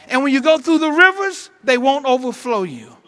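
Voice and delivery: loud, rising to a shout on the fire; shouted preaching climax. Real, not acted. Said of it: "I feel a shout coming on me".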